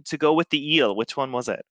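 high, slow put-on accent; asking husband which spice goes with eel, put-on accent; Ivar's accent. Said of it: "pretend I'm speaking like that".

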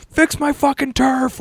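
high, slow, hammed-up rage; a contestant losing it over scuffed turf, mock yelling; imitated outburst, stretched and high; mock furious rant. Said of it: "he fucking goes nuts".

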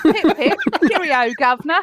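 hammed-up cheery British catchphrase accent; exaggerated stock British greeting; mock British accent. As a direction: parody a clichéd English accent.

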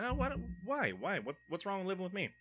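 high, whiny imitation of the offended girlfriend. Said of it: "She gets offended".

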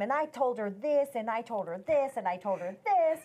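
re-enacting her own adamant account; adamant retelling. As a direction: lightly press each point home. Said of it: "so adamant about all the things I was telling her".

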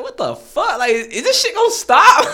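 high, loud exasperated outburst; acted-out disbelief. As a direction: relive your baffled reaction, voice shooting up. Acting out his baffled reaction.

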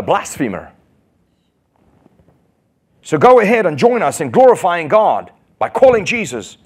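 taunting, pushing him to say it; mocking Pharisees. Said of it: "the Pharisees are saying to him".

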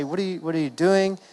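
a touch of retold alarm; mildly freaking out. Disciples to sleeping Jesus in a storm, mildly freaking out. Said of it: "they're freaking out".

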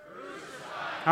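mock crowd. Shown as a demonstration. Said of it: "And the answer is?".

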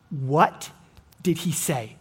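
"what did he say" asked softly and low, to himself; quiet musing. Shown as a demonstration. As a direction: ponder "what did he say" under the breath. Pondering the question aloud.

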